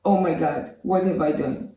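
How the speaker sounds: softly acted, stunned realization; imitating someone quietly taken aback; mock dismay. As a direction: drop to a small, hushed voice of regret. Acts her stunned look at him.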